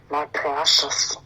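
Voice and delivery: slow, drawn-out creature quote; Smeagol. Acted. Cohost answers the Smeagol comparison, in a slow creature impression. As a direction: draw it out like a covetous creature. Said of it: "it's like Smeagol".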